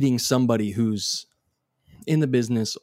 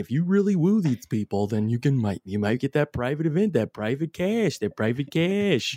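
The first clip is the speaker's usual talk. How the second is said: slick introducer; 4 semitones higher than usual. Retold or imitated. Imitating a party introducer.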